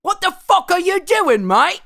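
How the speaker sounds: high, shouted mock tantrum in a strong accent; hammed-up furious star tearing into the crew; Christian Bale. Actor raging at someone walking through his shot, high mock-furious shout. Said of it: "is Christian Bale Australian".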